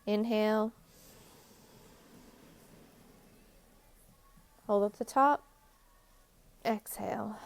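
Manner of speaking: measured, even-toned meditation guide with long pauses; unhurried relaxation-session voice; guided meditation. Real, not acted. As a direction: guide listeners gently through each step, leaving space between phrases.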